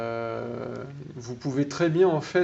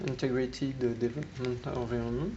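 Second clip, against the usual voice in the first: a self-mocking stab at an English accent; a light, half-hearted English accent; 3 dB quieter than usual. Shown as a demonstration. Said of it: "avec mon super accent anglais".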